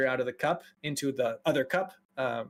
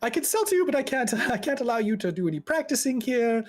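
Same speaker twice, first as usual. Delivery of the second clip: high, hesitant official voice; flustered, giggling rule-follower; anxious mage; 6 semitones higher than usual. Acted. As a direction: nervously lay down the rules. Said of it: "he's just very elevated, very anxious".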